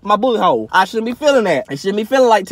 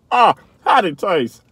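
slow, lower, mock refined voice; mock rich folks; 5 semitones lower, much slower than usual. Vlogger imitates rich folks with big words, mock refined. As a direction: savor it like a snob. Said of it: "rich folks be using all the big words".

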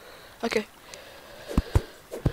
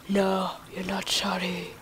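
slow, put-on scolding voice; mock stern rebuttal; 4 dB quieter than usual. Player scolding self for the mistake, mock stern. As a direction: answer slowly as your own stern accuser.

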